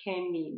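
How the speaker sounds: کمی as "kemi", a mispronunciation of Chemie; wrong pronunciation. Shown as a demonstration. Teacher warning learners off a wrong form, کمی said with hard k.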